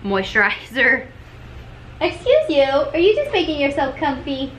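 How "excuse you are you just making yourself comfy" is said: higher, playful pet-talk voice; mock-scold a pet in a high voice. Real, not acted. Vlogger catching the pet getting comfy, playful pet-talk.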